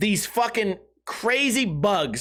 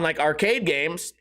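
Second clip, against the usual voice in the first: ordinary talk, nothing marked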